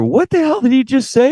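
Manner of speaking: high, baffled mock question; mock bewildered listener; confused audience. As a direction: play the puzzled viewers.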